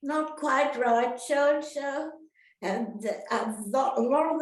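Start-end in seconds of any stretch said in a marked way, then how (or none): 0.0-2.1 teacher correcting. Retold or imitated. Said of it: "she'd say".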